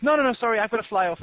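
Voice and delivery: a hint of bird voice, apologetic; little bird. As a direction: beg off lightly as a little bird. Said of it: "the little bird says".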